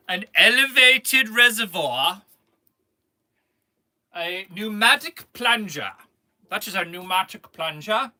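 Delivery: grand British science presenter; put-on British accent. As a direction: announce it in a mock British accent. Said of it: "I'll do a British accent".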